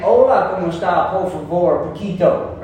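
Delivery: Spanish words with a Southern twang; non-native, twangy American-accented Spanish. Shown as a demonstration. Preacher showing his accent can't hide, Spanish with a Southern twang. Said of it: "he ain't a Mexican".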